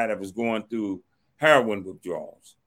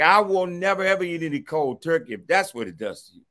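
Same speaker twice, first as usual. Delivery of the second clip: frightened vow; 4 semitones higher than usual. Retold or imitated. A scared kid vowing to his cellmate, alarmed. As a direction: swear it off in naive alarm. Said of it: "So I'm like".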